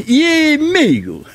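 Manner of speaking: E milho stretched out slow; slow drawled question. Acted. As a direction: drag out the question. Student asks again. (pergunta arrastada e lenta)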